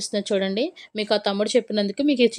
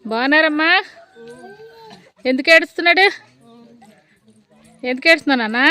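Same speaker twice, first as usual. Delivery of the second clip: raised, carrying voice to villagers nearby; calling out; 6 semitones higher, 5 dB louder than usual. Real, not acted. Vlogger greeting villagers and a crying child, calling out. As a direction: call out a friendly greeting across the yard.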